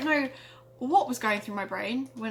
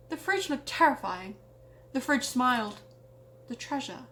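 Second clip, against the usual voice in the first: hammed-up storyteller narration; dramatic story reading. Reading her childhood story aloud, dramatic narrator voice. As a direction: read it like a spooky tale by the fire. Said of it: "my best attempt at dramatically reading a story".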